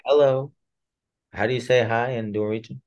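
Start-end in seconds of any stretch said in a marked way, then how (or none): 0.1-0.5 put-on gentle, like talking to a child; soft bedside voice. Shown as a demonstration. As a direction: greet softly, disarming. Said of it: "I usually say it in a very, uh, soft, gentle voice".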